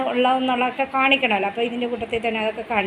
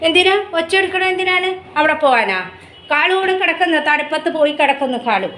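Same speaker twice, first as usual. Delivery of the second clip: higher, sweet voice for the dog; pet talk; 5 semitones higher than usual. Real, not acted. Owner coos at her dog Kalu, higher baby-talk voice.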